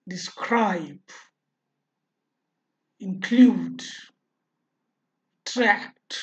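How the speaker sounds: डिस्क्राईब, इन्क्लूड, ट्रॅक्ट with the second syllable stressed. Shown as a demonstration. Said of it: "पुन्हा एकदा बघा".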